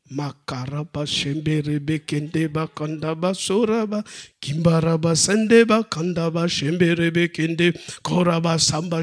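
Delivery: low, hushed rhythmic tongues; speaking in tongues. Shown as a demonstration. Preacher shows how he battles hunger, low murmured tongues. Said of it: "je vais vous montrer comment je fais".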